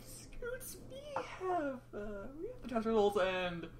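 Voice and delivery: high, halting, on the edge of tears; afraid. A narrator's reading. Nurse nervously breaking news to Scootaloo, high and halting. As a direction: nurse struggling to get the words out. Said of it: "she was too afraid to say it".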